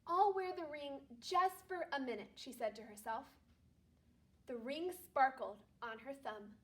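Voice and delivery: calm read-aloud storytelling voice; story narration. Acted. Teacher reading a Christmas story aloud to her class, calm narration. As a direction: read it gently to a second-grade class.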